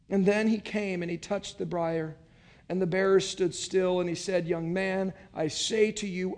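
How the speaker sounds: measured, solemn Bible reading; scripture reading. Acted. Pastor reads the gospel to the congregation, solemn. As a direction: read the passage with weight.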